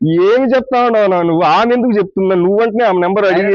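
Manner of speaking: pretend anger. Prankster scolds his friend over a message, in pretend anger. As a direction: fake fury for the prank.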